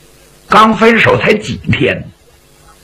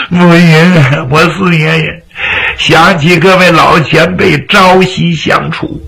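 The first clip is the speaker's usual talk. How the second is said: acted tearful plea, near usual pitch; tearful pleading. Fang Shu'an begging his elder to let him cry, tearfully. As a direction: plead through mock sobs to be left crying. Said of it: "你让我哭一哭".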